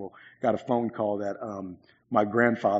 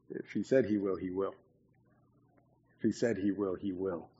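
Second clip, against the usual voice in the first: much softer, low repetition; quiet; 3 semitones lower, 9 dB quieter than usual. Real, not acted. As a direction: say it softly like a promise. Quiet repeated affirmation.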